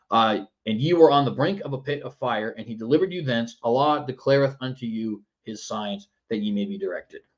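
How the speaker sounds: normal talking voice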